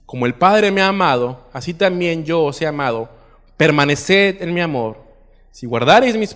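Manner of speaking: projected, declamatory Bible reading; preacher reading scripture aloud. Acted. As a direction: read the passage out to a congregation, leaning into each opening phrase. Reads scripture aloud to congregation.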